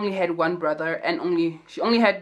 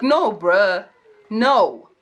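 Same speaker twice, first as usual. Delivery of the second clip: firm refusal; 6 dB louder, much slower than usual. Retold or imitated. Mimics firm refusal to excuse.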